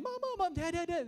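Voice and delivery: high, loud mock wailing; crying for parents. Preacher as scared swimmer calling to parents, mock crying. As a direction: imitate a frantic child crying out. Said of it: "they're, they're, they're crying".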